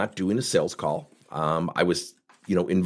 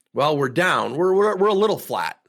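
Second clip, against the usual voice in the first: higher, louder, fumbling hedge; hedging mimic; 5 semitones higher, 4 dB louder than usual. Imitating the VP softening bad news, stammering. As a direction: mimic him wriggling out of it. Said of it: "putting a little extra sauce on it".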